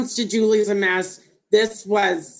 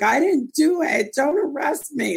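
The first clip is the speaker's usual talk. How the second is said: mock crying plea; 6 semitones higher than usual. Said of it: "that girl that starts crying".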